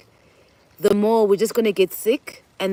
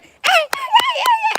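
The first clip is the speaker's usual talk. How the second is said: security guard shouting. Retold or imitated. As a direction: shout him off like a fed-up guard. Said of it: "the security guard just went".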